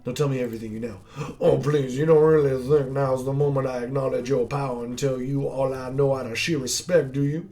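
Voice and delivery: lightly voiced villain, mocking; a touch of a gloating dying hunter. Dying hunter taunting the hero, lightly voiced villain.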